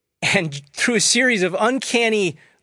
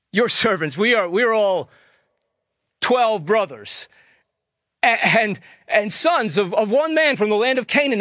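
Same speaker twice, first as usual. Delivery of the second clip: higher, stammering, urgent plea; anxious pleading; 5 semitones higher than usual. A narrator's reading. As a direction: tumble out the words in fear. Brothers plead again anxiously.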